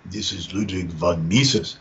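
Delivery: put-on slow, low thick German accent. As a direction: say it slowly in a heavy German accent. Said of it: "with a thick German accent".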